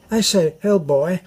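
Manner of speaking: a light mock of posh British talk; posh accent. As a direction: toss it off like a toff. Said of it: "they say things like".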